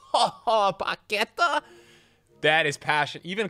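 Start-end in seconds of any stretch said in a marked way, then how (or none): 0.1-1.6 laughing, high and excited. Real, not acted. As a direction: laugh through the name. Laughing at pack.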